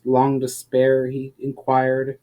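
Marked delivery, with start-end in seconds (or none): 0.0-1.1 confused question. Acted. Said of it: "Valinar seemed confused".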